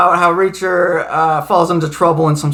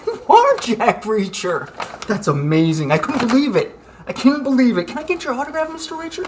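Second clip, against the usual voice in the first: high, gushing fan squeal; starstruck fan; 4 semitones higher, 5 dB quieter than usual. Acted.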